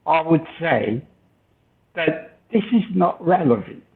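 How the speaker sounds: quick, lightly put-on English accent; a playful try at a southern English accent; hint of posh English accent; mock English accent. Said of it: "Did I approximate a local accent".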